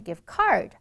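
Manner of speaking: "gift card" with the weight moved onto "card"; wrong word stress. Shown as a demonstration. Teacher mimicking students' gift card mistake, stress on second word. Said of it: "好多同学说成".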